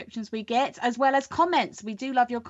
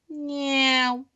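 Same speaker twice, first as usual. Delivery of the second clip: cat meow; 3 semitones higher than usual. Pretend. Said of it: "my brilliant sound effects".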